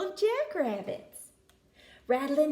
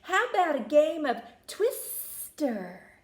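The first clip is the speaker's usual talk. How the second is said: lightly voiced snake, a bit higher; friendly snake invitation, pitched up; hissing snake; 4 semitones higher, 4 dB louder than usual. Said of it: "he hissed".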